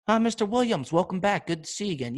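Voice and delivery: high, overly friendly clerk greeting; mock hotel clerk. Hostel clerk welcoming back a regular, mock cheerful. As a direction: lay on the fake welcome.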